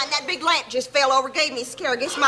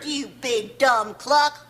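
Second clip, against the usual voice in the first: slow insult; much slower than usual. Acted. Insulting her son Ed.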